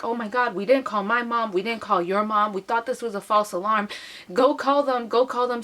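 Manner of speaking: worked-up pleading, rising to an order; urgent panic. Retold or imitated. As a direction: rush out a mild mock panic. Retold panic about calling parents.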